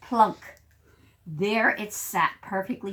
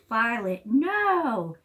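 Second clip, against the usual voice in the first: scolding call; 3 semitones higher, 4 dB louder, much slower than usual. Acted. Owner scolds dog in story.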